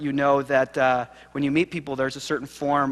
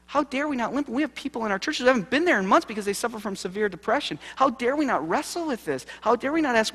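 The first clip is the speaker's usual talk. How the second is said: impassioned preaching; 9 semitones higher than usual. Real, not acted. Preacher's rising passion.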